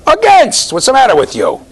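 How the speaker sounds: high, loud cry of AGAINST; mock outraged shout. Teacher ribbing the class over a spelling, mock outraged shout. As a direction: burst out in mock exasperation.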